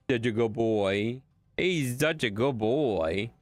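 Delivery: slow, drawn-out dog praise; adoring pet-owner drawl; doting praise. Real, not acted. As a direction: coo over the dog, stretching the words.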